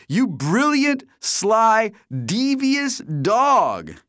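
high, loud, wild rant; excited friend H. A narrator's reading. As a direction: rant at your buddy for not calling. H praising friend.

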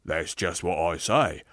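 self-righteous working man, insistent; blustering ghost. Acted. Aggrieved ghost defending the life he led, blustering. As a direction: push each claim like a stubborn grumbler.

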